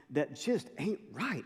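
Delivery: slow Southern drawl; drawn-out, folksy Southern delivery; Southern accent. Shown as a demonstration. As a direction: say it with a Southern twang. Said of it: "I said it with a Southern accent".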